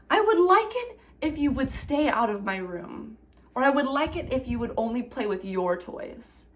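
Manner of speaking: calm I message to a sibling; calm and respectful. Shown as a demonstration. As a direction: ask the sibling kindly. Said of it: "say it in a calm way and respectfully".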